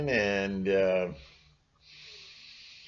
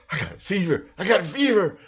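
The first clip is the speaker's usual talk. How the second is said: mock fever complaint; 8 semitones higher, faster than usual. Mock sick person.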